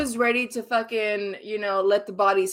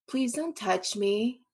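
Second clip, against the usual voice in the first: softer, slow, mock bitchy tone; 7 dB quieter, slower than usual. Quoting a girl at the bar who refused his arm, mock bitchy and softer. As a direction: imitate a girl brushing you off coldly. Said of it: "But, like, in a bitchy way".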